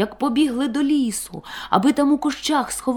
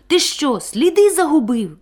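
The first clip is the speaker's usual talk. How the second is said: frightened; 6 semitones higher, 4 dB louder than usual. A narrator's reading. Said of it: "злякався котик".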